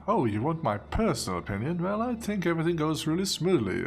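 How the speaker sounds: light British official voice; a hint of a polite British clerk; mildly British city official; British accent. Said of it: "I don't know why I made this guy British".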